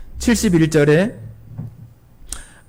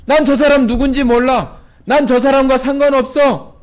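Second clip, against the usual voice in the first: higher, insistent oath; swearing denial; 6 semitones higher than usual. Retold or imitated. Peter swearing to bystanders he doesn't know Jesus, raised. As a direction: swear he never knew him. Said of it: "이번에는 베드로가 맹세하는 거예요".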